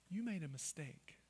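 soft, low, gentle correction; kind God. Acted. God looking at you after a mistake, gently kind. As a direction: tell them kindly, very quietly. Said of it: "Is it kindness".

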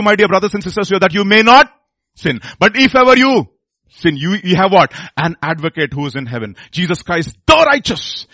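loud, emphatic sermon delivery; preaching. Acted. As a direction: drive each point home to the congregation. Preaches at full force.

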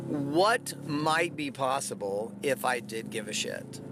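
slow, deliberate question. Shown as a demonstration. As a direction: lay the question down slowly. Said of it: "which is this".

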